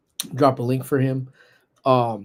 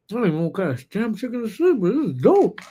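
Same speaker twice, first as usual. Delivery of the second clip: excited; 8 semitones higher than usual. Real, not acted. Tasting chicken, hyped reaction.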